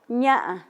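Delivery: "ña" con tono marcado; tono mixteco. Shown as a demonstration. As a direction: di "ña" cuidando el tono. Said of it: "si yo digo". ("ña" con su tono exacto)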